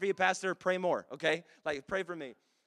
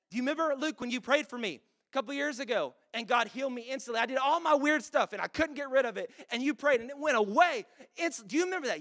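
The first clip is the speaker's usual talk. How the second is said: higher, louder, eager reminder to his son; excited retelling; 5 semitones higher, 6 dB louder than usual. Retold or imitated. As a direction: bubble over as you remind Luke. Dad excitedly reminding son Luke.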